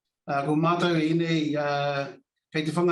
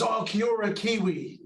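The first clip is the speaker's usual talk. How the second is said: lightly voiced friendly stranger, pitched up; imitated airport stranger; 5 semitones higher than usual. Houston Airport stranger greets a New Zealander, lightly imitated higher-pitched voice. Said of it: "I heard this voice say to me".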